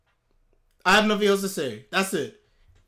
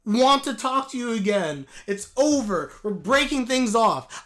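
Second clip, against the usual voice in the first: quoting her; 5 dB louder, slower than usual. Retold or imitated. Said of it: "and I quote".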